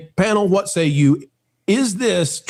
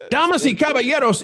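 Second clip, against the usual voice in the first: lucha libre announcer; 9 semitones higher than usual. Pretend. Ring announcer style intro.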